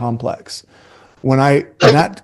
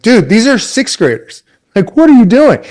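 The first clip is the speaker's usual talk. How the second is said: high, exasperated disbelief; can't believe what he's seeing, pitched way up; incredulous; 9 semitones higher, 4 dB louder than usual. Retold or imitated. Young coach to older coach over his huge playbook, incredulous. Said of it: "I'm like".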